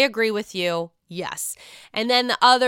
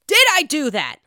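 higher, louder mock innocent question; indignant question; 6 semitones higher, 6 dB louder than usual. Robin asking Charisse on the phone, mock indignant. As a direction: ask it as if stunned and wronged.

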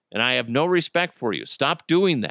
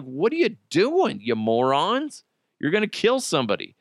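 higher, exasperated mock yell; mock rant at drivers; 4 semitones higher than usual. Host scolds drivers who run red lights, a mild mock yell. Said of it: "It's like".

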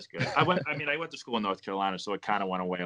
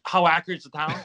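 surprised echo; 6 semitones higher, 6 dB louder than usual. Real, not acted. Guest echoes the host's question back in surprised disbelief. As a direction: echo the question back, higher and louder with a rising end.

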